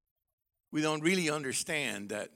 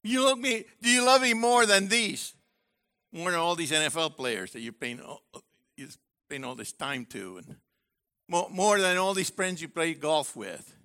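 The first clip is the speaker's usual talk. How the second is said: Jesus questioning; 3 dB louder than usual. Retold or imitated. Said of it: "Let me quote Yeshua and Peter".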